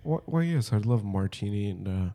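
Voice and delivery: soft, smooth lounge gentleman; mock suave gentleman. Ordering a martini on a date, mock-suave. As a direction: play a suave cocktail-bar charmer. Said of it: "you're just like".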